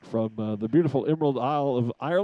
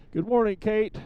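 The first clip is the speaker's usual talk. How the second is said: calling up a greeting; 8 semitones higher than usual. Real, not acted. Greeting pilot flying overhead.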